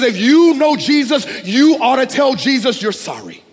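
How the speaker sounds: loud, high, emphatic retort in imitated Iraqi broken English; forceful mock rebuke in broken English. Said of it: "his Iraqi accent, his broken English".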